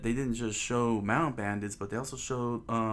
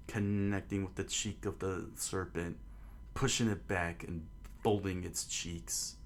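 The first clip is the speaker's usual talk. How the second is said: measured, understated storytelling voice; story narration; 6 dB quieter than usual. A narrator's reading. Narrator setting out the townspeople watching at port, measured storytelling. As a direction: read it as a storyteller setting a scene.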